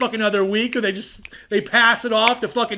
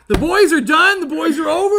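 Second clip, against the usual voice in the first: laughing; 7 semitones higher, 6 dB louder than usual. Real, not acted. Mocking the boys idea, laughing.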